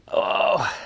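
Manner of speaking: high "oh" sliding down; excited exclamation. Real, not acted. Angler fighting a solid fish, excited exclamation. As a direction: cry out high at a big fish.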